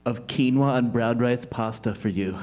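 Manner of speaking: halting, earnest courtship; lightly played bashful suitor; awkward lovestruck student. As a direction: woo stiffly, with pauses and restarts.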